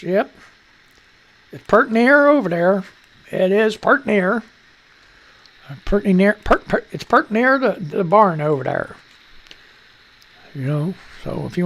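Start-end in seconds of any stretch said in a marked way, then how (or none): 1.5-9.0 light country twang on "pert near"; Southern drawl. Retold or imitated. Riffing on the viewer's phrase, a light country drawl. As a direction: play a folksy farmer pointing to the barn. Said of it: "people from the South".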